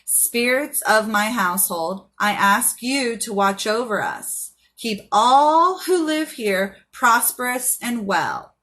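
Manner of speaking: slow, solemn spell prayer; slow incantation. Shown as a demonstration. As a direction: intone it like a blessing. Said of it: "Light the candle and say".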